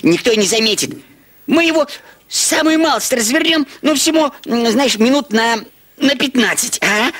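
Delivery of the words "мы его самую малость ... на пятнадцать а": excited. Acted. Excited scheming, higher pitch.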